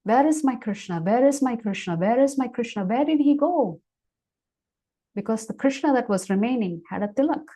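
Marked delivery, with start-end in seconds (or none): 0.0-3.8 distraught searching. Acted. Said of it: "She starts crying. She's searching for Krishna".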